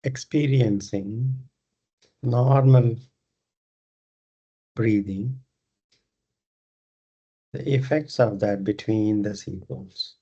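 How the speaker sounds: unhurried meditation guidance with long pauses; guided meditation. Acted. Leads a yoga nidra meditation.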